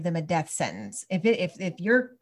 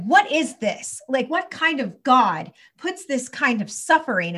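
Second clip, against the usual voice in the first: higher-pitched outraged questioning of God; retold angry rant; 4 semitones higher, 3 dB louder than usual. Mom retelling her kitchen rant at God, angry. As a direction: re-enact being mad, demanding answers. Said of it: "I was so mad at God".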